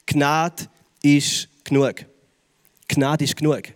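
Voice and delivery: langsam und tief, sacht fallend; sanfte Gottesstimme. Retold or imitated. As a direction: lass die Worte ruhig sinken. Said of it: "wo Gott sagt". (ruhig tröstend, langsam gesprochen)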